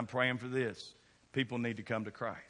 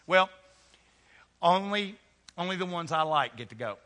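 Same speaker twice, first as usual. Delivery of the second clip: mock exclusive god; 4 semitones higher, 4 dB louder than usual. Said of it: "Aren't you glad God didn't say".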